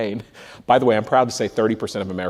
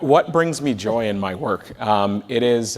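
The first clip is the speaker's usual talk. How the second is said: ordinary talk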